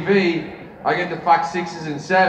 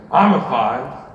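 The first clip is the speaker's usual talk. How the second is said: Al Pacino. Retold or imitated. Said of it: "He goes".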